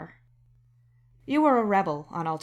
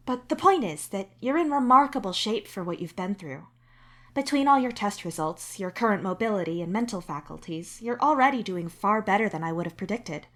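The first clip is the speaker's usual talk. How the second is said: the doctor giving measured, even advice; 2 semitones higher than usual. Acted. The doctor to the patient, calmly clearing them. The doc voiced again.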